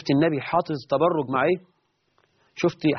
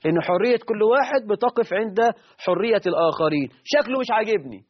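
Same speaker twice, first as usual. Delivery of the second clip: lightly voiced woman objecting, higher towards the end; retold complaining woman; 3 semitones higher than usual. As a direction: mimic her complaint with a touch of indignation. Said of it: "وتقول لك".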